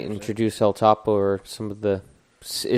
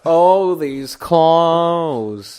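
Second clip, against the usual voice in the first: raised, louder creature voice; 5 semitones higher, 4 dB louder, much slower than usual. Pretend. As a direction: growl it like a clawed beast. Mock creature voice.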